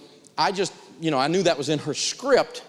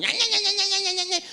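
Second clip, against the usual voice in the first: high-pitched mocking nya-nya nagging; nagging debt collector. Debt collector hounding someone behind on bills, high mocking nagging. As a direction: mimic a collector's whiny yammering, much higher. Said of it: "a collector calling you and".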